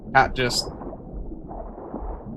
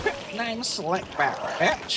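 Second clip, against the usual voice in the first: high, slow, drawn-out pimp character voice, stretched and held; Katt Williams pimp voice; 7 semitones higher, 7 dB quieter, much slower than usual. Retold or imitated. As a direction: strut through the name like a flashy pimp. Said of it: "one of the greatest characters Cat Williams ever did".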